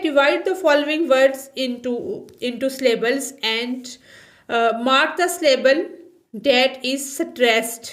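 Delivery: reading the English line aloud, x0.4 word by word; slow textbook reading. Shown as a demonstration. Teacher reading the textbook line slowly to students. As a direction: read each word slowly for the class.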